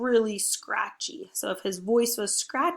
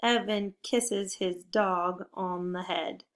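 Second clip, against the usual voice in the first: slow example sentence; slower than usual. Shown as a demonstration. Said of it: "I could say".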